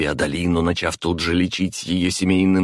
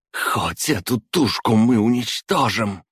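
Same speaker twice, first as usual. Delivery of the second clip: wheezing; 6 semitones higher than usual. A narrator's reading. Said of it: "прохрипела Адалина".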